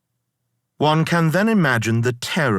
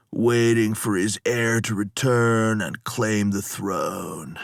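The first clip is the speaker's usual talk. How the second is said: lazy slurring stoner voice, pitched up; laid-back surfer dude, words sliding together; slurred stoned dude. Acted. Lotus eater reassuring the captain, slurred stoner voice. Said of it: "prattling on".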